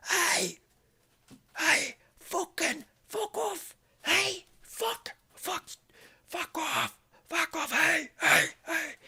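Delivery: very high yelled "Hey!" and "fuck off"; screaming at a lion. Shown as a demonstration. Guide shows how you scream at a lion, high yell. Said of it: "you scream".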